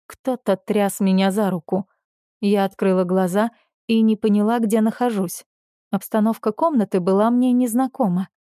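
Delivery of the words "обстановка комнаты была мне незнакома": ordinary delivery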